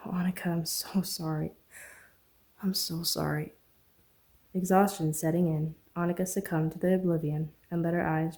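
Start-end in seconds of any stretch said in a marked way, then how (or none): 0.1-3.5 soft whispered sorrow; whispered apology. Acted. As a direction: apologize under your breath, holding her. Kiss to her hair, apologizing.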